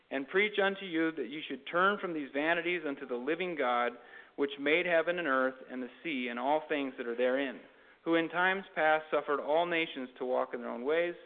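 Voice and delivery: measured Bible reading with lifted phrase openings; scripture reading. Acted. Preacher reading Acts to listeners, formal scripture reading. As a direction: read the verses out to a congregation.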